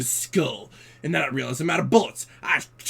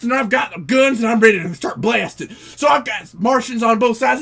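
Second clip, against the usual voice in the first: louder and higher, building action; excited gunfight; 5 semitones higher, 3 dB louder than usual. Acted. Cowboy narrating his shootout, getting louder and excited. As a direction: rush the shootout with rising thrill.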